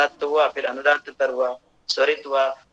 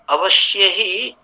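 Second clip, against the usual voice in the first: अवश्य ही said slowly, higher and louder; emphatic stress; 5 semitones higher, 5 dB louder, much slower than usual. Real, not acted. Lecturer to students, insisting: अवश्य ही said slow and loud. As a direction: lean hard on अवश्य ही, drawn out.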